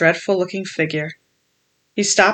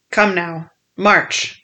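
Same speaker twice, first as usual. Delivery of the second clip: cold cruel command; much slower than usual. Acted. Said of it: "a voice so cruel and cold and ugly".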